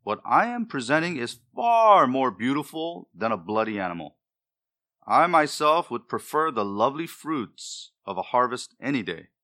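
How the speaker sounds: a hint of proud self-justification, emphatic stresses; lightly voiced prideful Cain. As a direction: lightly act out Cain arguing his own case. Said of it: "Cain may have reasoned".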